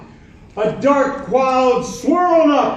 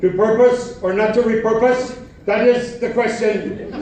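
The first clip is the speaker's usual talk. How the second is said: grand proclamation. Acted. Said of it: "and proclaimed".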